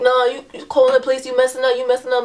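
a touch of mock yelling; retold arguing. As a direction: imitate the man scolding back. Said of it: "he's going back and forth".

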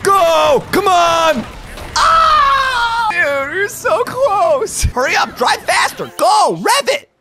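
loud, high-pitched screaming at the race; frantic urging. Real, not acted. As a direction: yell them on desperately, voice shooting up. Urging on a racer in close game.

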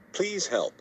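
high, cracking plea for help; desperate plea. Acted. Wolf begging his friend for help mid-panic, high desperate plea. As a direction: beg as the panic peaks.

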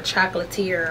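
Chocolatier ending in a "teer" sound; Chocolatier with a "-teer" ending, like musketeer; alternative pronunciation. Shown as a demonstration. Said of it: "I don't know how you pronounce it".

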